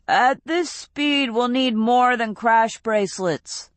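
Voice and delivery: a touch of dread; worried Fausto. A narrator's reading. Fausto voiced in story.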